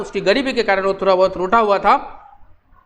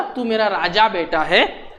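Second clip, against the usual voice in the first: lightly voiced tender mother; a hint of a mother's soothing coax; mother comforting her sulking boy, a touch tender; loving mother; 3 semitones lower than usual. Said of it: "माँ ने प्यार से लड़के को बोला".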